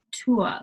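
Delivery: "tour" said as toor with no R; British tour. Shown as a demonstration. Teacher shows "tour" as toor to learners. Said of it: "that's kinda how the French say it".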